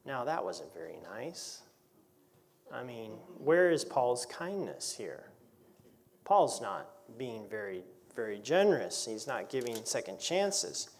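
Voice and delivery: slow, mock-indignant aside; tongue-in-cheek. Preacher teasing the church about Paul's harsh words, tongue-in-cheek. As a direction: pretend to be scandalised at Paul. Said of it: "I'm talking tongue-in-cheek here".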